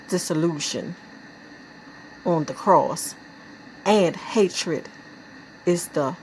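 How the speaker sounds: subdued poem reading with pauses; measured, lightly solemn verse; poetry recitation. Acted. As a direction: recite it gravely, phrase by phrase.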